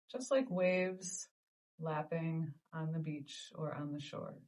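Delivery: measured meditation guidance with long pauses; guided meditation. Acted. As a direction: guide listeners gently through each breath, leaving space between phrases. Leads a breathing meditation.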